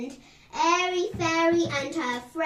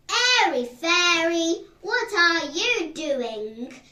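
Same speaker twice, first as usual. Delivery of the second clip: raised, stern teacher's call; 5 semitones higher, 5 dB louder than usual. A narrator's reading. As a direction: call her out sharply like a strict teacher. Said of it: "said a stern voice".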